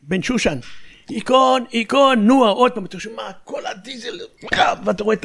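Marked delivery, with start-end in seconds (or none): 1.1-2.5 higher-pitched, spaced-out radio orders; battalion commander on radio. Retold or imitated. Battalion commander repeats the move order to tanks, imitated radio call. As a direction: mimic a commander calling the move. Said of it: "המג"ד".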